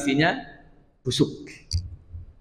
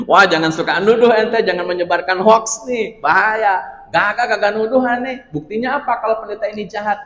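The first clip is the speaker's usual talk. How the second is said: indignant townsfolk; 5 semitones higher than usual. Retold or imitated. Townsfolk quarrel with Salman.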